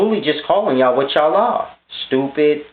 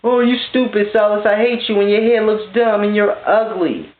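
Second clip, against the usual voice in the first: higher, whiny mock insult; childish taunting in a raised voice; mock hater; 4 semitones higher than usual. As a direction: parody an angry critic. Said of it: "Why y'all get lost?".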